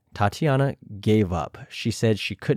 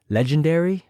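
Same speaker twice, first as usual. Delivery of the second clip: mocking question; 6 semitones higher than usual. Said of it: "Jujubee says".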